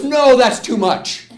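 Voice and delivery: loud, high, drawn-out mock protest; retold upset protest. Woman as the spider climbs her arm, acted upset protest. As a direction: wail it out slowly, acting her alarm. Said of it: "she's all upset".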